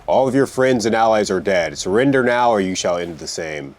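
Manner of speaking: mild in-character yelled threat; mock yell. Player demands sorcerer's surrender, mildly yelled. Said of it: "yell at the remaining sorcerer".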